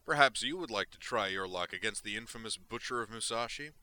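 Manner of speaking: loud, theatrical gloating taunt; mocking android villain. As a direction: sneer with lavish, courtly menace. Android Butcher taunts Grissom.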